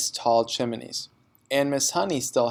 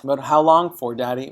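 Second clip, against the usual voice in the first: put-on mild child's cry; 5 dB louder than usual. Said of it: "Matilda cried".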